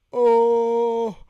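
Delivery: a sudden scared shriek; startled cry. Retold or imitated. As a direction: jolt in terror. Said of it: "and I'm like".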